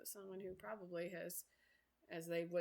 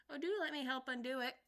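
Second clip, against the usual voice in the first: eager to help; 5 semitones higher, 4 dB louder than usual. Acted. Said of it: "looking anxiously about her".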